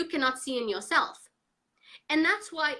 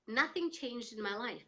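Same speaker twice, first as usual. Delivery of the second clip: quiet; 7 dB quieter than usual. Real, not acted. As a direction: let "nothing" drop away quietly. Repeated line, first take.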